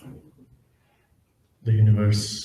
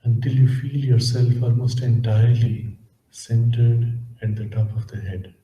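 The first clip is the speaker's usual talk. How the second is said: measured, calm instructions, leaving space between phrases; guided meditation. Acted. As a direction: gently guide listeners inward, unhurried.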